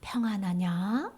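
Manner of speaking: slow, low-key rising question; gentle greeting. Acted. Risen Jesus to trembling disciples, gentle question. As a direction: ask it slowly and gently. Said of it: "제자들에게 나타나서".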